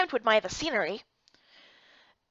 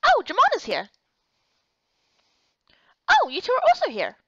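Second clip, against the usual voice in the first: much higher, louder voice of a worried friend; concerned friend; 9 semitones higher, 6 dB louder than usual. Acted. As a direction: press gently but insistently. Same character voice.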